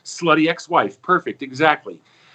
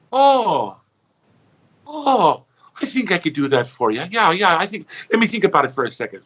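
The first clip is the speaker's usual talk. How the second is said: put-on sweet old nun; 2 semitones higher than usual. Nun agrees, high voice.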